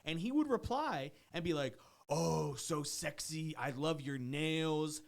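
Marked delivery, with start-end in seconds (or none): 2.1-5.0 drawn-out, slow creepy flirting; slow sleazy compliments. Retold or imitated. Host reading the trainer's texts, slow mock-sleazy voice. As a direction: drag the words out like a creep.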